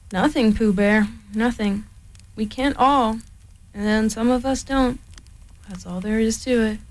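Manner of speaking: lightly voiced mopey donkey; a hint of Eeyore sulking to Pooh; gloomy Eeyore. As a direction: sigh out a self-pitying reply. Eeyore's voice held.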